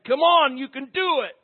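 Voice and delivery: high, loud burst of coach's encouragement; yelling coach. Retold or imitated. Coach yelling at his exhausted player, urgent shout. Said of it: "The coach is there yelling at him".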